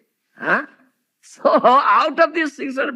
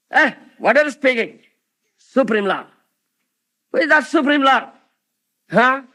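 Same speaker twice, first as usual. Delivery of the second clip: angry demon father; 5 dB louder than usual. Retold or imitated.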